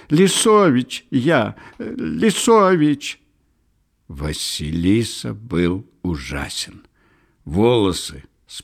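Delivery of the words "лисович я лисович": very high, slow, wailing cry; frantic high-pitched cry for help; panicked crying out. A narrator's reading. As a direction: wail the name desperately, loud and stretched. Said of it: "вскричал силуэт".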